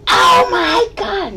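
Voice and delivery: high, slow, loud cry of alarm; shocked shriek. Retold or imitated. Feisty seeing the guy hit Marine, high shocked cry. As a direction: let it out in horror.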